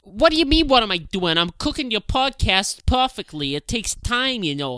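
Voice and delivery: lightly played partner defending the cooking; mock-defensive partner. Partner answering an impatient husband, mock defensive. Acted quarrel over cooking the podcast.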